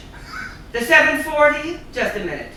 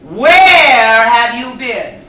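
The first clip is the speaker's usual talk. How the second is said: slow, louder demanding question; insistent repeat; 5 dB louder, much slower than usual. Acted. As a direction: press her for an answer.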